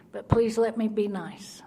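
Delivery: slow breathy whisper to God; whispered prayer. Retold or imitated. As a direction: whisper it, pleading under your breath.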